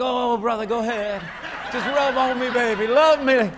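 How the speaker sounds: hammed-up loving surrender; mock melting affection. Preacher acts out a man welcoming affection, mock melting.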